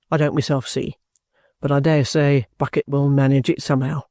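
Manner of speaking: lightly voiced soldier, pitched a little under the narration; measured and self-possessed, a soldier reporting; composed trooper. Trooper tells the guardian where his case stands, composed.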